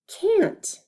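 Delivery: high whispered can't. Shown as a demonstration. Teacher repeats word.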